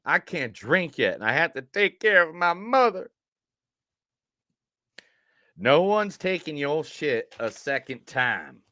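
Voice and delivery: lightly Southern movie quotes; Southern accent. Acted. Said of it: "the Southern accent for every single quote".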